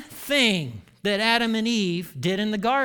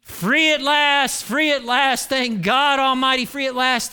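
Martin Luther King; 6 semitones higher, 6 dB louder than usual. Acted. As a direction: ring it out like a triumphant civil rights speech. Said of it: "in the words of Doctor King".

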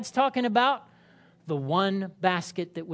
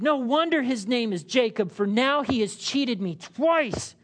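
higher, aggrieved protest; exclaimed; 4 semitones higher than usual. Acted. Esau protesting to his father, mildly aggrieved. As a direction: complain bitterly of being cheated. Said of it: "Esau exclaimed".

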